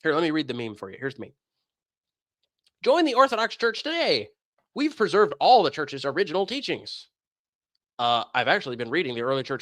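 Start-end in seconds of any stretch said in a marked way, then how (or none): 2.8-7.1 mock ad voice. Reading an Orthodox recruiting meme.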